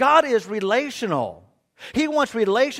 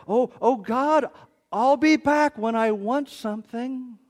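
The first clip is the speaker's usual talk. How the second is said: offhand prayer; 4 semitones higher than usual. Retold or imitated. Voicing a transactional pray-er.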